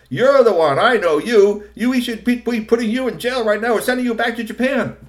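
high, loud ranting boss; furious villain. A narrator's reading. Kusumono accusing Kashikoi, furious. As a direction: bark accusations at the thief. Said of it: "He was so angry".

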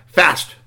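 "fast" punched loud and drawn out; stress on fast. A narrator's reading. Storyteller setting the toy above others, emphatic "fast". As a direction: hit "fast" hard as the real thing. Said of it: "fast is fast for some people, but".

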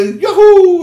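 high, loud laughing whoop; wild whoop. Acted. Runaway horses whooping across the sky, laughing. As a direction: horses cutting loose with a yell.

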